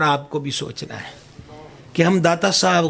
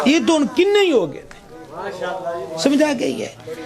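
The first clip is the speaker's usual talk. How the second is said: fervent exhortation; 4 semitones higher than usual. Real, not acted. Preacher exhorts the crowd.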